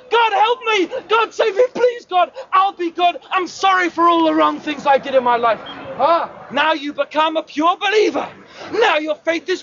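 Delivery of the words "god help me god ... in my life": panicked begging. Acted. Falling man begs God.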